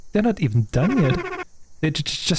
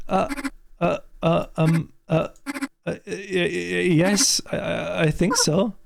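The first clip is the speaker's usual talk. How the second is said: shaken stammer; 3 dB quieter than usual. Acted. Aya stammering after the attack.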